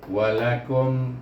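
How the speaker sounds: walakum, lips shut on final m; slow walakum ending on closed m; over enunciating. Shown as a demonstration. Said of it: "terus tutup bibir kerana izhar syafawi".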